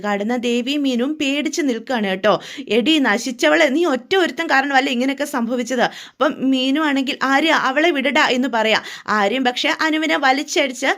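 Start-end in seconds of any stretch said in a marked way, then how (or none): 2.8-5.8 angry shout. Acted. Aryan shouting at his sister Anu in rage. 7.3-8.2 louder, pleading cry to let her go; urgent shout. Acted. Meenu shouting at Aryan to release Anu.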